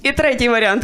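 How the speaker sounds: usual speaking voice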